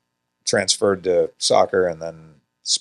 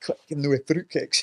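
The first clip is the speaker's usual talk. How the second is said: put-on Scottish accent; 8 semitones higher than usual. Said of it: "he had a Scottish coach there".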